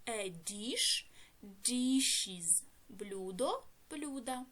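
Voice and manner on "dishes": "dishes" in two syllables, di-shiz, louder; plural with iz ending. Shown as a demonstration. Teacher reading out the new plural, clear iz ending. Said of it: "Додаємо закінчення".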